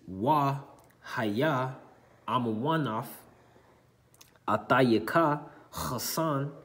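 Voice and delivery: reads the Hebrew verse word by word with long pauses; slow Hebrew recitation. Shown as a demonstration. Teacher reading the verse aloud to the class, slow recitation. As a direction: sound out each Hebrew word slowly for students. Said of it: "it reads".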